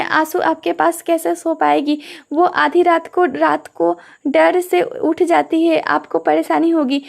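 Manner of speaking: usual speaking voice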